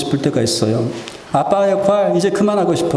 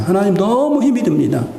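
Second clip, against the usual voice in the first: rising, slowing into a desperate cry; desperate plea; 4 semitones higher than usual. Shown as a demonstration. An exhausted parent begs God, desperate and rising. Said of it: "이렇게까지 할 수가 있다는 거죠".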